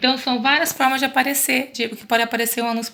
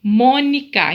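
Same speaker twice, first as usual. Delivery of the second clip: "Mônica" louder, with a strong first syllable "Mô"; teacher's loud MÔ-ni-ca; stressed syllable shown; 6 dB louder, much slower than usual. Shown as a demonstration. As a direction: sound out "Mônica", hitting "Mô". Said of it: "quando a sílaba tem acentuação".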